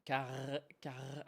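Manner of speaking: Car- with a long throaty rattle on the R; attempted rolled R. Shown as a demonstration. Streamer practising rolling R's and failing, attempted rolled R. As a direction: try to trill the end of Car- and hold it. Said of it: "I can't roll my R's like that".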